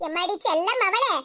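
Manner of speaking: soft, low, sweet-talking mother; mother sweetly coaxing her sulking daughter; coaxing tenderly. Acted. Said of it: "பாசமா கூப்பிடுங்க".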